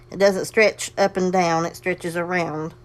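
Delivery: slow, leaning on doesn't and around; slow contrast stress. Shown as a demonstration. Teaching a sewing class, slow contrastive stress. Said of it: "instead of up and down this way".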